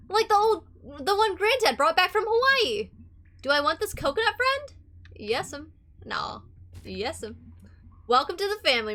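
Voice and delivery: giddy, swooping delight; excitable treasure finder. Acted. Scavenger delighted by coconut monkey and Dracula teeth, giddy voice. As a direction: gush over each find, pitch often jumping up.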